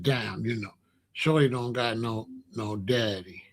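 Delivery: hushed, breathy aside to himself; soft whispered pity. Retold or imitated. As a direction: whisper it like you feel sorry for the kid. Pitying aside after leaving the boy.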